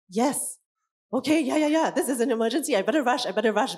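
a touch of emergency panic; mock panic. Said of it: "teaching them that this is an emergency".

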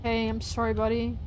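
soft, hushed sorry; tender apology. Real, not acted. Player apologises to the fallen buddy, soft tender apology. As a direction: murmur it gently to a lost buddy.

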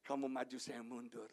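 low, yielding voice, softening at the end; unselfish. Acted. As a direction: step back modestly and let others go first. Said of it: "nggak egois". (mengalah, rendah dan lembut di akhir)

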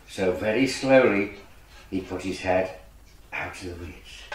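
low, soft storytelling, fading away; hushed suspense. A narrator's reading. Storyteller as duckling peeps from the weeds, hushed. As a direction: drop right down as he creeps out.

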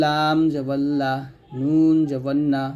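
light "লা" and "না" with open aa; thin letters. Shown as a demonstration. Teacher contrasting letters for learners, "লা", "না" said thin. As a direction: say "লা" and "না" thin, without rounding. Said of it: "লাম পাতলা হবে".

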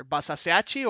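Basaseachi with an unsure, even stress; pronunciation attempt. Shown as a demonstration. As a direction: try out Basaseachi in Spanish sounds, tentatively. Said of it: "I don't even know how to pronounce that one".

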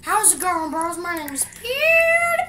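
high YouTuber greeting voice; hammed-up YouTuber intro; PewDiePie impression. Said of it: "do a PewDiePie impression".

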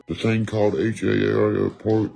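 slow, altered voice spelling out "H A R P"; slow spelled-out emphasis. Shown as a demonstration. Telling viewers about weather control, slowly spelling "H A R P" ominously. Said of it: "slow repeated take".

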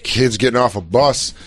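put-on a little drunk. Podcaster mocks the lecturing coach as slightly drunk. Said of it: "he's, like, a little drunk".

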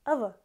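"Ава" clipped and quick, both vowels neutral; fast reduced syllable. Shown as a demonstration. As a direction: isolate the blurred ending "Ава". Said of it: "like, really fast".

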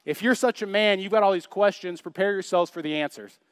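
God rebuking. Retold or imitated. God answering Job's complaints, stern rebuke. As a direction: lay down a stern challenge. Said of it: "God goes".

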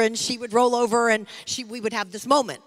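normal talking voice

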